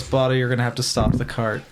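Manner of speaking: understated, unexcited in-character warning; resigned, matter-of-fact delivery; long-suffering sigh. Acted. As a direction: say it with little urgency. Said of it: "She does a long sigh, goes".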